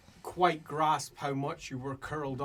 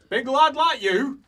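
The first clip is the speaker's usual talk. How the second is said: loud, raised-pitch dwarf voice; scornful dwarf; 9 semitones higher, 11 dB louder than usual. Acted. Dwarf standing over someone curled up, loud scorn. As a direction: needle them as a gruff-mannered dwarf.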